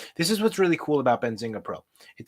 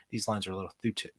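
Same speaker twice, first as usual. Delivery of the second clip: put-on Matthew McConaughey accent; 3 semitones lower, 7 dB quieter than usual. Streamer fussing over chart lines, a hint of McConaughey accent. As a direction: lightly slip into a McConaughey Southern accent. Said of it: "I don't know where that accent just came out of".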